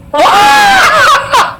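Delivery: high shocked shriek; shrieked what. Real, not acted. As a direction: squeal in disbelief. Reversed clip sounds nothing like it.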